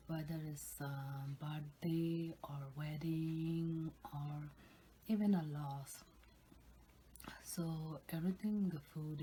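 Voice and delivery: ASMR whisper. Real, not acted.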